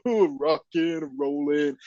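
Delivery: slow, put-on cheesy catchphrase; mocking Travolta impression. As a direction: drag out the line like a smug cool guy. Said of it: "He's like".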